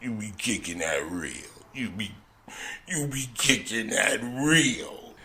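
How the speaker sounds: put-on a sleepy drunk's mumble; mumbled retelling.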